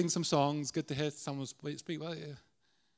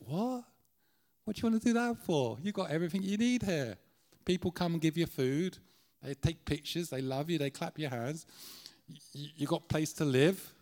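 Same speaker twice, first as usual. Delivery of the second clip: incredulous lion; 2 semitones higher than usual. Acted.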